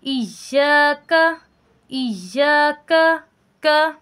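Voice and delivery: slow chanted "इय्याका" with a light front k in "का"; thin kaf in recitation. Shown as a demonstration. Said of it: "बारीक काफ है".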